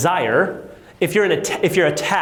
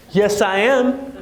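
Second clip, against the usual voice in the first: drawn out, slow "yes, I am"; slow proud answer; 4 semitones higher, much slower than usual. Retold or imitated. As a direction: say it slowly, full of yourself. Confident answer to escrow.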